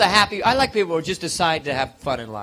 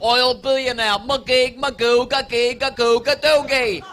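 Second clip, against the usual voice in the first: Robin Leach impression; 4 semitones higher, slower than usual. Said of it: "Never talks at a normal tone of voice".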